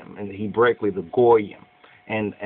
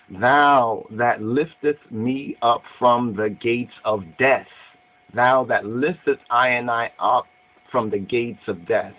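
scripture recitation. Acted. Slow psalm recitation.

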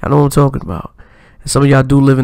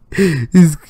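louder, pushed impression of a rapper, a bit strained; overdone louder rapper voice; imitating a rapper; 3 dB louder than usual. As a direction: lean hard into a rapper imitation. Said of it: "I try to do his voice a little bit hard".

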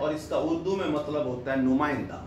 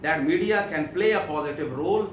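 very slow, word by word English reading; slow dictation; 4 dB louder, much slower than usual. Shown as a demonstration. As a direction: read it out slowly for the class to follow. Reads English text slowly. (धीमी आवाज़ में पढ़ना)

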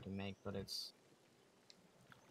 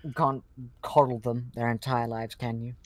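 mock boastful; 9 dB louder than usual. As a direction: boom out your self-praise like a smug coach. Mock-arrogant caster brag.

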